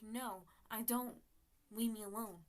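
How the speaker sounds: acted-out annoyed brush-off; retold firm refusal. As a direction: push them away loudly, stretching the words. Retold quarrel over texts.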